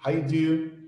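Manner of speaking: "How you do" reduced to "ha-iu-du"; casual, squashed "How you do"; contracted form. Shown as a demonstration. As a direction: drop the d, running "How you do" together.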